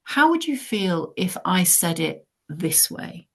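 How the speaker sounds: offering a kinder way to put it, slow and gentle; slow gentle question. Retold or imitated. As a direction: draw it out gently. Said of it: "if you then say to them".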